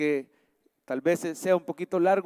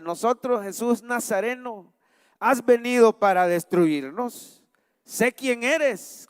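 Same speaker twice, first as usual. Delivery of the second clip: slow, raised-pitch protest of a demon; mild demon cry; 4 semitones higher, slower than usual. Acted. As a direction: act out the outcry without really shouting. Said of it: "Empezó a gritar diciendo". (grito moderado de demonio, lento y agudo)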